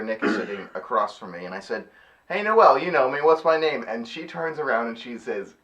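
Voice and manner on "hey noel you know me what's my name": mock call to a friend, higher and louder. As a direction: call her over for backup. Acted calling out to a friend.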